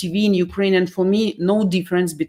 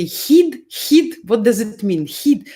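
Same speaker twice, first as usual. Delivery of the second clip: puzzled tourist; 3 semitones higher than usual. Retold or imitated. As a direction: imitate a tourist baffled by an unknown word. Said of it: "and she say".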